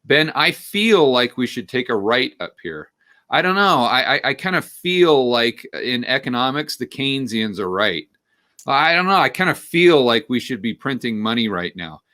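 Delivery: lightly voiced hedging young person, rising on I don't know; a hint of a timid millennial unsure of every word; mock unsure millennial. Mimicking a young friend hedging to Ben, mildly unsure. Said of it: "They always use the term "I feel".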